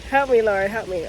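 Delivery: long anxious exhale; nervous sigh. Real, not acted. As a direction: breathe out before praying. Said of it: "about to literally be pregnant".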